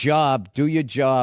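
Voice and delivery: jawb like saw; Boston accent. Shown as a demonstration. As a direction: teach the Boston vowel. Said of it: "I'm gonna repeat after".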